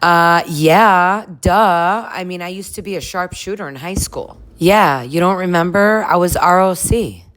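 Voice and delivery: mock ditzy brag; imitating Lindsay. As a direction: act offended nobody remembers. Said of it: "And Lindsay's like".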